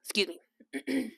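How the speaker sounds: soft, slow whisper; real quiet whisper; whispered excuse. Real, not acted. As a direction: excuse yourself under the breath. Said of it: "clears throat".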